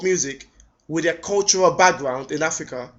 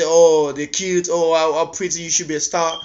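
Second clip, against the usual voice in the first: mock gushing. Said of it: "They say".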